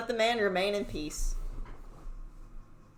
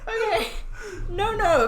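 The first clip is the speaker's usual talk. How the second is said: feeble voice; 11 semitones higher, 6 dB louder than usual. Acted. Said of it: "in a feeble voice".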